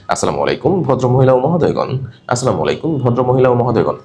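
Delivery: flat, speechy read of আসসালামু আলাইকুম; stiff speech tone. Shown as a demonstration. Teacher showing the wrong announcement tone. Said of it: "not like that".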